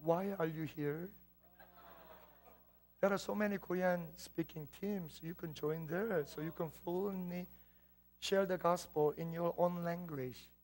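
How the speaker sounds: a hint of her condescending tone; sister's dismissive remark, voiced softly; mild mimicry of sister. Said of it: "She goes".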